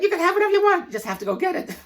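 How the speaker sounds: God granting whatever he wants; God's voice. Retold or imitated. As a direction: proclaim it like a giddy deity. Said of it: "God said".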